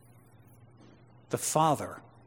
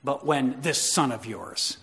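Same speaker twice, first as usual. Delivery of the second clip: spat out; 3 dB quieter, slower than usual. Retold or imitated. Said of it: "hear him spitting that".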